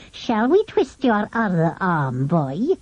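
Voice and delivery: lightly voiced sly villain, slow and menacing; a quiet gloating interrogator; cruel pale-faced man. A narrator's reading. Villain threatens boy.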